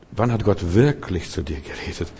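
"wirklich" leaned on in the question; stress on wirklich. Shown as a demonstration. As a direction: press the word "wirklich". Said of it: "ich betone jetzt mal das wirklich". (Betonung auf "wirklich")

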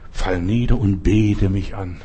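low, slow commanding tempter; devil's command. Retold or imitated. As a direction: order worship slowly from down low. Devil demands worship.

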